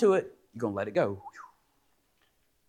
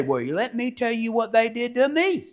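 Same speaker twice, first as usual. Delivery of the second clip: gossip quote; 8 semitones higher than usual. Retold or imitated. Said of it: "you don't say".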